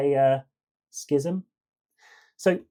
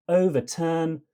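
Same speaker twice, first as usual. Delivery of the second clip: "overturn" higher, strong on O and TURN, light between; cretic stress; 4 semitones higher than usual. Shown as a demonstration. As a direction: hit both ends of "overturn". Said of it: "with a cretic tract".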